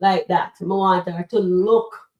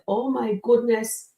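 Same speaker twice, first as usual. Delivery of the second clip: hammed-up realisation, much higher and louder toward a shout; over-the-top horrified gasp, climbing to a cry; mock-horrified Shayla; 11 semitones higher, 5 dB louder than usual. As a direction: ham up Shayla finally seeing what she did. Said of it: "and then she gonna say".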